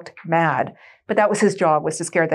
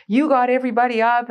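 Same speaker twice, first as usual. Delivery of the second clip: mildly raised, accusing officer; retold dressing-down, pitched up; imitated scolding; 5 semitones higher than usual. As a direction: lay the blame, as a mock reprimand. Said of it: "tearing a strip off me".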